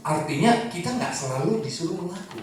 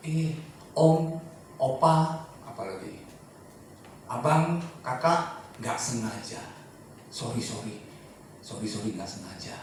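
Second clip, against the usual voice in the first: gentle apology; 4 semitones lower, 4 dB quieter than usual. Retold or imitated. Apologizing to child, playful titles.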